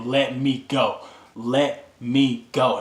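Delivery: each word separate and emphatic; forceful retold demand. Patient gripping a doctor by the collar, forceful demand. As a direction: re-enact a firm, spaced-out demand.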